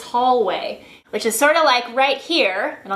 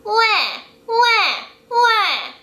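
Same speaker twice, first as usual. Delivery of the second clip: put-on high, pingy baby wail; mock baby crying, much higher; baby cry imitation; 10 semitones higher, much slower than usual. Shown as a demonstration. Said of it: "imitate a baby, A baby crying".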